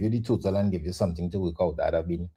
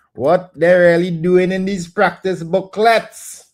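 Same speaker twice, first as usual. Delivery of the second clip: exasperated disbelief; 7 semitones higher, 8 dB louder, slower than usual. Real, not acted. Exasperated teacher at a test question.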